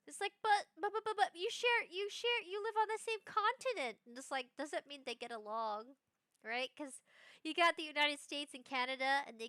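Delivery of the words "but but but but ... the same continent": higher-pitched mock objection; baffled protest. Objecting that they share a continent, baffled protest.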